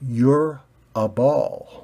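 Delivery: very slow, tired repeat; weary sigh. Acted. Red ball sighing at pointy ball, very slow weary. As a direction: say it with a sigh of patience. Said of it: "The red ball sighed".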